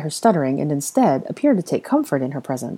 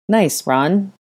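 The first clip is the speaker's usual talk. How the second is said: sardonic; 3 semitones higher, 3 dB louder than usual. Acted. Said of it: "Ginny said sardonically".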